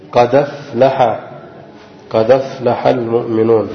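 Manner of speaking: قد أفلح joined slowly as qadaflaḥa; قد أفلح المؤمنون with no hamza; transfer reading. Shown as a demonstration. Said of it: "صارت وصل".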